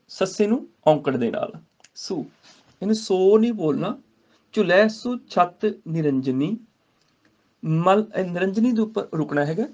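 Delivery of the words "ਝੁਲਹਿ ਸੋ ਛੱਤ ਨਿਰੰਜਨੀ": slow measured Gurbani recitation. Shown as a demonstration. Teacher recites the verse to students, slow. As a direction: chant each word with pauses.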